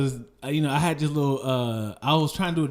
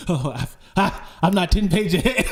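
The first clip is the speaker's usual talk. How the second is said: retold flustered protest; 4 semitones higher, 4 dB louder than usual. Acting out being caught while reading.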